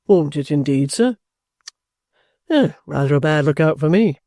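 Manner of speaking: lightly voiced trooper, mildly amused by bad news; good-humoured. A narrator's reading. Trooper answering the guardian's warning, good-humoured. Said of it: "Mister George good-humouredly observed".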